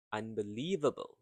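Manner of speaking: "unbelievable" with stress on the third syllable, "lie"; word rhythm. Shown as a demonstration. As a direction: lean on "lie" in "unbelievable", quick syllables around it. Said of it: "You say it with a rhythm".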